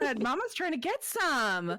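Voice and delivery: mock-scolding the cat while laughing; laughing aside. Real, not acted. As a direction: grumble to the cat through a laugh. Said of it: "I'm laughing at my cat".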